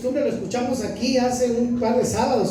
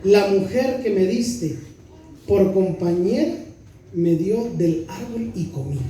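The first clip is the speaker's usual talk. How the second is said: slow, lower solemn reading; scripture reading; 3 semitones lower than usual. Real, not acted. Preacher reading the man's words from Genesis, solemn and slow. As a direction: read the verse slowly and solemnly.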